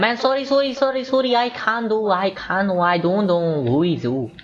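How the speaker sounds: high, frantic string of sorrys; panicked apologies. Real, not acted. Gamer apologizing after a slip-up, panicked and high. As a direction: blurt out apologies in a rising panic.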